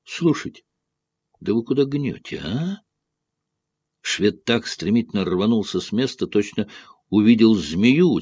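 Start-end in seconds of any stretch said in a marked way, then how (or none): 0.0-2.8 high exasperated call. A narrator's reading. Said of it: "крикнул он".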